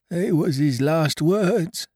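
frightened pirate moaning over Flint's last words. Acted. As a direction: moan it as if the ghost were near. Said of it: "moaned Morgan".

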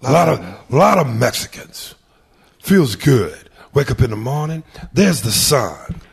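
lightly voiced Pacino; Pacino impression. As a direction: savour each word like Pacino. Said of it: "'cause I do Pacino".

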